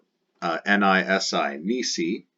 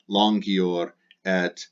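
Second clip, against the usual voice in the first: slow modelling; much slower than usual. Shown as a demonstration. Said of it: "teacher models Latin phrase".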